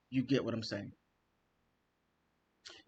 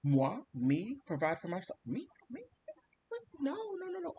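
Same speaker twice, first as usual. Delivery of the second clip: imagined outraged niece; 9 semitones higher, 4 dB quieter than usual. Retold or imitated. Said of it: "imagining what's going through her head".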